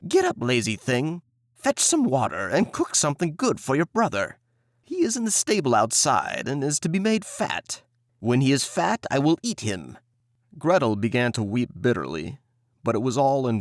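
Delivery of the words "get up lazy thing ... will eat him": bossy witch voice, a bit higher; scolding witch. Acted. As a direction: order the girl about. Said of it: "and cried".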